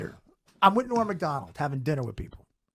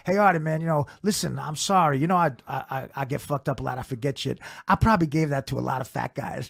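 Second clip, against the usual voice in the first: stoned Mitch Hedberg; 4 semitones lower than usual. Retold or imitated. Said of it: "So he's all fucked up".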